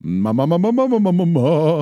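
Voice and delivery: loose-jawed syllable warm-up, climbing in pitch; floppy jaw ya ya drill. Shown as a demonstration. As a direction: drop the jaw and bounce the syllable. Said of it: "do some vocal exercises".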